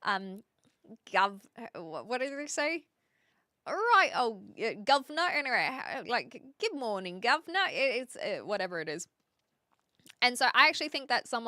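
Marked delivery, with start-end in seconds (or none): 3.7-5.3 higher, half-hearted Cockney "governor"; trope Cockney accent. Shown as a demonstration. Streamer groping for the British trope phrase, mock Cockney. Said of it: "the Cockney accent is a trope". 6.6-7.6 half-hearted Cockney greeting, rising on "governor"; trope Cockney accent. Shown as a demonstration. Streamer showing how people fake British, mock Cockney. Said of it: "the Cockney accent is a trope".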